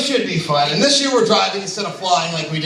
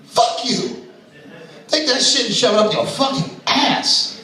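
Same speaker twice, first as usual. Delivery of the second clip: higher, heated telling-off; angry retort; 5 semitones higher than usual. Retold or imitated. Comic to imagined drug dealer, mock angry outburst. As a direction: snap back at the dealer in mock anger.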